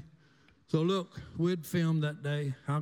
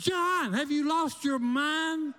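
retold scream; 9 semitones higher, slower than usual. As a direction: shriek it like a shocked mother. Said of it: "And Mama screams".

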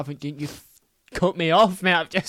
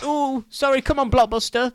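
squeaky voice; 9 semitones higher than usual. Pretend. Mock posh squeal.

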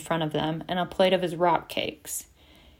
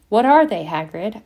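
feigned interest; 2 semitones higher, 6 dB louder than usual. A narrator's reading. Harry asking about maggots in the barrel, feigning interest. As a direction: try to sound interested, hiding disgust. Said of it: "trying to sound interested rather than revolted".

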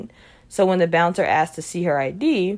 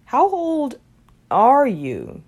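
sharp, high, loud demand; 7 semitones higher, 6 dB louder, much slower than usual. A narrator's reading. Robert to Margot at the bar, loud and demanding. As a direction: insist on an answer right now. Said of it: "he demanded".

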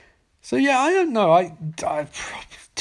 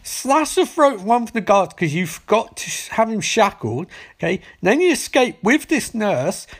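mock governor yell; 4 semitones higher than usual. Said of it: "the governor screams and says".

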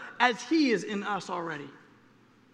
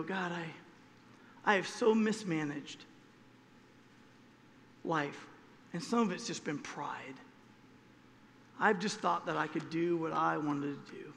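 softer, lower confession on your knees; humble quiet prayer; 5 semitones lower, 6 dB quieter than usual. Retold or imitated. Kneeling believer confessing to God, hushed and humble.

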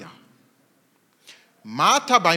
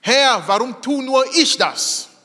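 mock whining; 6 semitones higher, 5 dB louder than usual. Mock churchgoer whine.

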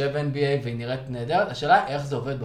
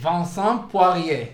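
loud, hammed-up French accent, pitched higher; heavy French accent; 5 semitones higher, 6 dB louder than usual. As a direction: belt the name out in a thick French accent. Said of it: "זה מבטא צרפתי כבד".

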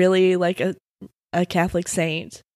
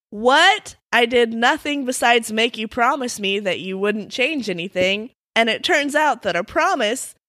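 incredulous protest, pitched higher by the end; mock indignation; 3 semitones higher than usual. Tricked boy confronts the leprechaun over the broken promise, mock indignant. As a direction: protest like a naively outraged kid.

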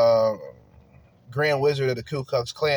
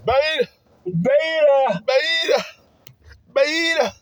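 mock squeal; 13 semitones higher, 4 dB louder, much slower than usual. Repeats word mockingly high.

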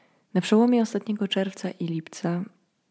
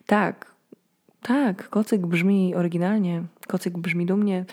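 inspired shop owner. Retold or imitated. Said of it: "doznaje olśnienia i myśli".

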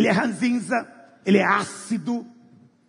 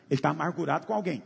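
usual speaking voice

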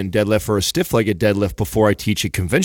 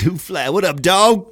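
hyped greeting; 9 semitones higher, slower than usual. Real, not acted. Greeting listener on the show.

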